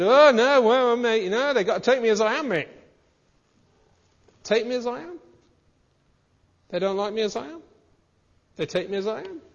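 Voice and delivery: put-on Scouse accent. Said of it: "would you change your broad Scouse accent".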